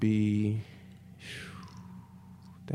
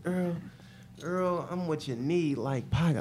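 put-on old school player; 4 semitones higher, 5 dB quieter, slower than usual. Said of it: "old school players be saying".

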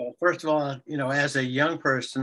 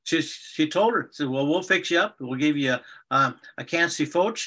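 playful fairy tale narration of spoonerisms; storytelling. Shown as a demonstration. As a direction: tell the fairy tale for the grandkids. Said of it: "tell her just a couple lines of Render".

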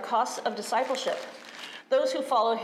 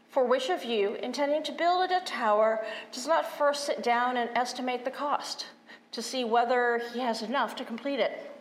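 scripture reading. Acted. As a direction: read the gospel with weight. Reads the gospel.

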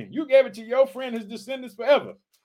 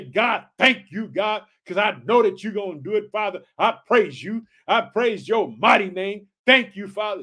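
praise prayer. Shown as a demonstration. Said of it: "You ought to just say".

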